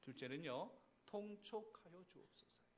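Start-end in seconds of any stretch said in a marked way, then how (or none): 1.1-2.6 slow, soft courtly plea; 사극 신하의 간청; period drama plea. Shown as a demonstration. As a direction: plead with the king as a royal minister. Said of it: "한번 따라 하시겠습니다".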